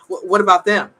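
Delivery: heated outburst. Retold or imitated. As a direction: hammer the questions with rising anger.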